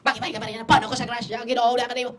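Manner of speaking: loud, high, frantic cries; panicked crowd. Retold or imitated. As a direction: act out the people's panic. Panicked people at the Mass. (sigaw ng nataranta na mga tao)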